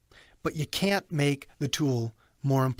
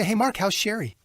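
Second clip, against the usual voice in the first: genuine friendly; 5 semitones higher than usual. Shown as a demonstration. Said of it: "Or I say".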